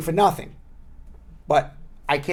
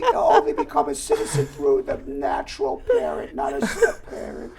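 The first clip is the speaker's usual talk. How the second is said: laughing; 11 semitones higher, 3 dB louder than usual. Real, not acted. Laughing while giving answer.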